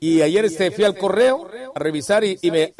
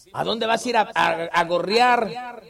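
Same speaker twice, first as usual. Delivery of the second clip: mocking taunt; 3 dB quieter, slower than usual. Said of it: "así me pone".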